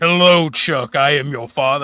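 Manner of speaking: very deep voice. A speaker imagines talking on whippets, in a very deep voice. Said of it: "whippets give you the deepest fucking voice".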